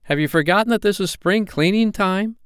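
put-on high boyish reproach; mildly stern, indignant question; a little stern. A narrator's reading. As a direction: scold lightly, pitched right up. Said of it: "he added a little sternly".

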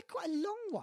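a hint of a giant's voice; lightly voiced gamekeeper; a bit like Hagrid. Real, not acted. Host told he sounds a bit like Hagrid. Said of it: "You sound a bit like Hagrid".

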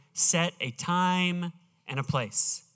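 slow, deliberate "Set a time and a place"; the church motto, each word placed slowly. Shown as a demonstration. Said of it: "you're gonna hear".

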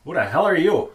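high, loud challenge; acted startled demand. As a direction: demand it of an unseen voice. Character challenges the unknown voice.

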